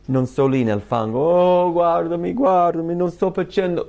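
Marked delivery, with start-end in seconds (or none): 1.2-3.9 high, loud mock wail of self-pity; whiny higher voice begging to be looked at; mock whiner. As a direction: ham up someone wallowing in the mud. Mocking a self-pitying believer.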